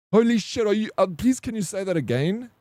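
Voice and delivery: high-pitched, acted amazement; astonished relief. Patient just told lungs are clean, retold astonishment. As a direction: blurt it out high in disbelief.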